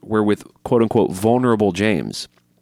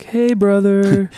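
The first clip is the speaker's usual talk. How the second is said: high, slow wrestler growl of hey brother; Hulk Hogan impression; 11 semitones higher, 3 dB louder, much slower than usual. To a fan, a gentle wrestler voice, drawn out. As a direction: ham it up like a pro wrestler. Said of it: "A gentle Hulkamaniac".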